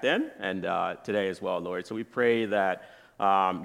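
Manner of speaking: low, subdued prayer voice; spoken prayer. Real, not acted. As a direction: humbly address God, informal and halting. Leads the opening prayer.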